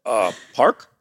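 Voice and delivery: halting, puzzled fake foreigner; feigned non-English speaker. Driver pretending no English to guard, mock foreign halting. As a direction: play a clueless foreigner with barely any English. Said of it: "pretend that I didn't speak English".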